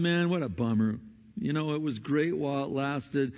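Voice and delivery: low, mildly mopey imitation; dejected disciples. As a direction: voice crestfallen walkers with a touch of gloom. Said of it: "kicking the dirt going".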